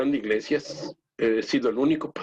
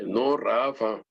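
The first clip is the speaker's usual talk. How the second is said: imitated voice; 3 semitones lower, much slower than usual. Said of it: "una voz así".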